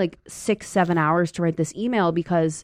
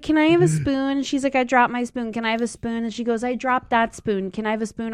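put-on higher whiny kid voice; 6 semitones higher than usual. A kid begging the babysitter for a spoon, higher and whiny. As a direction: ask again and again like a pestering child.

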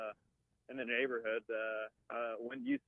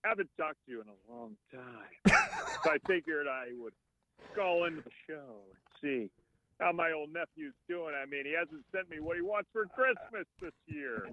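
lightly voiced Warburton; a hint of a deadpan uncle; Patrick Warburton impression; 2 semitones higher than usual. Shown as a demonstration. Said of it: "here's my Patrick Warburton".

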